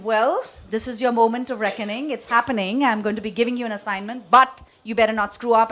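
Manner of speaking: talk-down. Retold or imitated. Boss warning a junior employee, firm and condescending. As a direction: speak down to him with a warning. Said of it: "my talk-down approach, almost contemptuous".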